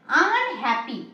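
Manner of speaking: আনহ্যাপি drawn out as আন, then হ্যাপি; drawn-out word parts. Shown as a demonstration. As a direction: stretch আনহ্যাপি to show its two parts, আন and হ্যাপি. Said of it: "আনহ্যাপিটাকে আমরা দুভাবে break করতে পারি".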